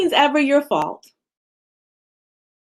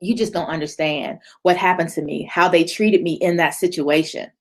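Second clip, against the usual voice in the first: lower, mopey complaint; mock self-pitying complaint; imitating a victim; 6 semitones lower than usual. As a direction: sulk it out, low and heavy. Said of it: "they say things like".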